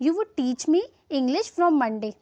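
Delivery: slow dictation. Shown as a demonstration. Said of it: "teach होता है पढ़ाना".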